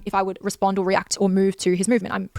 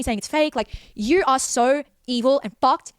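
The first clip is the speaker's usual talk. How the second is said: retold tearful accusation; 4 semitones higher, slower than usual. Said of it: "I was crying".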